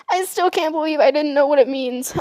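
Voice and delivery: squeaky laugh leading into amused disbelief. Real, not acted. Storyteller embarrassed by her childhood blunder, laughing disbelief. Cracking up at her own mistake.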